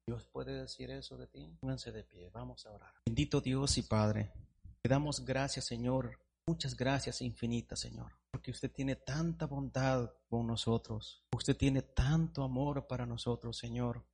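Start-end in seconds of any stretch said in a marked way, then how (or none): 3.1-14.1 earnest pastoral prayer; fervent prayer to the Lord. Acted. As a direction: pray it humbly for the church. Pastor leads closing prayer.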